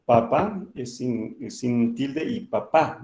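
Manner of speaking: papá with the last syllable hit hard; slow demo of Spanish stress on papá; stress shown on papá. Shown as a demonstration. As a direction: put the force on the final a of papá. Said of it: "se pronuncia con, con fuerza".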